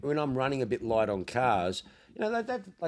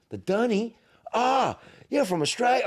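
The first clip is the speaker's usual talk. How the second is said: high, louder amused bartender voice; amused American bartender; 11 semitones higher, 4 dB louder than usual. Retold or imitated. High, delighted American barmaid voice. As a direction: bartender catches the Aussie word and laughs it off. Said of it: "And she's like".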